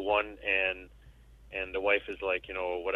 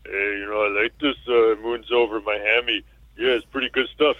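Rambo impression; 5 dB louder than usual. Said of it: "all this time I've been trying to talk like Rambo".

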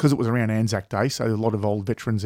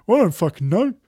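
teary laugh; 7 semitones higher, 4 dB louder than usual. Retold or imitated. Mate admits crying, laughing.

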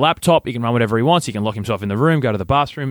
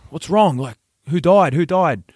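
higher-pitched, urgent retold questioning; mock alarm; 5 semitones higher than usual. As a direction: act out fearing the worst. Retold alarm at emergency call.

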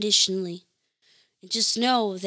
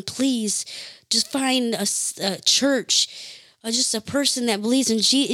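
heartfelt prayer; 4 dB louder than usual. Real, not acted. Spontaneous prayer aloud.

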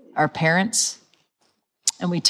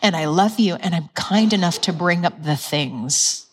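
gentle loving. Shown as a demonstration. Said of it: "he's like".

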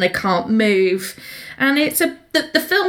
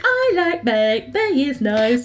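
higher, slow, drawn-out prim reply; mock prim brush-off; 3 semitones higher, slower than usual. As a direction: stretch it out like a polite, bored wife. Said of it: "And she's just like".

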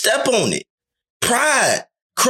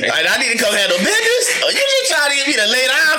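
put-on eager boyfriend; 4 semitones higher, faster than usual. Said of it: "And I be like".

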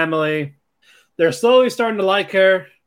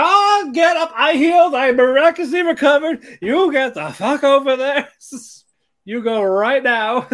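higher, louder hammed-up grandma ordering her out; mock miraculous grandma; 10 semitones higher, 4 dB louder than usual. Grandma to Chizuru, shooing her off to the party, hammed-up higher voice. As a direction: play the suddenly healed grandma, hammed up.

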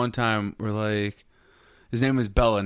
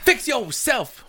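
high drawn-out; 12 semitones higher, 3 dB louder, much slower than usual. Shown as a demonstration. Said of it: "drawn-out echo of the line".

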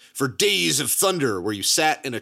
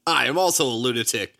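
mock lunatic writer; 4 semitones higher than usual.

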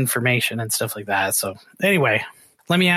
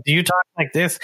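lightly put-on Southern drawl, a bit higher; mock Southern accent; 4 semitones higher than usual. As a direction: ask it with a hint of a Southern twang. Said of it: "use the Southern drawl".

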